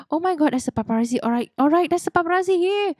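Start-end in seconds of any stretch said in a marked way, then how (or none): 0.0-0.5 surprised gasp. Real, not acted. Spots the paparazzi in game.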